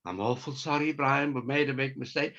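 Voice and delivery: mock a contrite officer, head low; humble sergeant. Teller mocks sergeant apologising to him, lightly humble voice. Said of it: "you're all humble".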